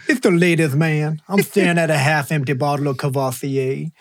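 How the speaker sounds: Leon Phelps. Retold or imitated. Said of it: "some Leon Phelps".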